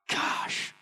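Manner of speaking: unvoiced rueful whisper; whispered gosh. Real, not acted. Preacher sighing at his past choice, whispered. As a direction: breathe it out regretfully. Regretful aside.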